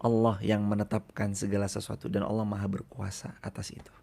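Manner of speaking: breathy whispered translation. Real, not acted. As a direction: whisper it close and soft. (terjemahan dibisikkan pelan)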